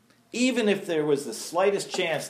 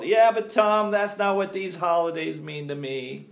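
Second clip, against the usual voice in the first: mock protest; 3 semitones higher than usual. Churchgoer pleading with the preacher over holidays, mock protest. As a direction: push back with a raised, protesting opening. Voicing congregants' objections.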